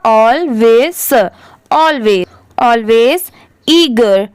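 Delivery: very slow, each word drawn out; slow reading demo. Shown as a demonstration. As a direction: spell the sound out slowly for learners. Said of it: "S लगने की वजह से स की sound क्या हो जाएगा?".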